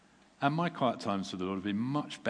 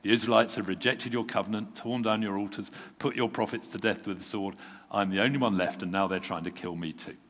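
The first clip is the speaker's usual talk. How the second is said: exasperated complaint; 5 dB louder than usual. Acted. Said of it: "He replied exactly the same".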